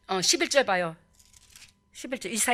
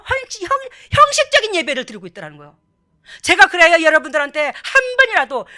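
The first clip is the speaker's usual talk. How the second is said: raised, urgent pulpit exhortation; full-force preaching; 5 semitones higher, 8 dB louder than usual. Real, not acted. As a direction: press the congregation with insistent force. (목소리 높여 권면하는 설교)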